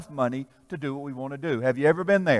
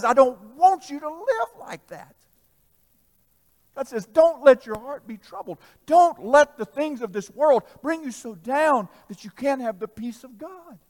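voice of God; 7 semitones higher, 7 dB louder than usual. Acted. Voicing God, higher.

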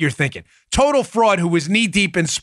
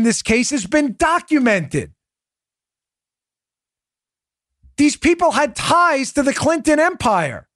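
outraged rising rant; 9 semitones higher than usual. Real, not acted. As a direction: let the outrage climb. Outraged at Warner's claim.

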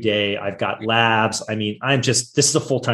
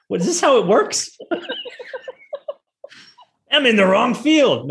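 laughing disbelief; 11 semitones higher than usual. Real, not acted. Laughing in disbelief at classmates' offers.

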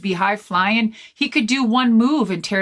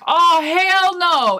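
hell no; 8 semitones higher, 4 dB louder, slower than usual. Retold or imitated. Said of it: "And I was like".

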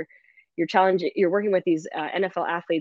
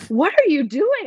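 put-on high, louder startled kid voice; imitating the girls; 11 semitones higher, 6 dB louder than usual. Players asking their blocking coach, high startled voice. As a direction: play a shocked young player. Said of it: "They're like".

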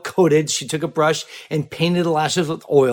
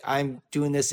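softer, timid statement; weak voice; 7 dB quieter, slower than usual. Retold or imitated. Cohost imitating a weak-voiced tech talking to a client, softer. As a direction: say it without conviction. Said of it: "you say it in a voice that's kinda weak".

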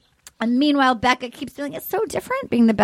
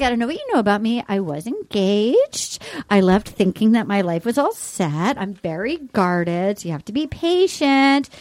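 imitated Becca; 6 semitones lower than usual. Quoting Becca's guarded speech.

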